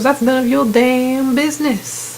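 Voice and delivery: drawn-out hostile retort, lightly acted; mock hostile. Woman holding a gun refuses to say who she is, mock hostile. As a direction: imitate a hostile brush-off, stretching the words. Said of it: "she's so hostile".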